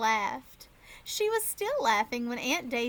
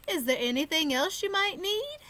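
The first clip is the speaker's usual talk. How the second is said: put-on Irish accent; 5 semitones higher than usual. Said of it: "an Irish accent".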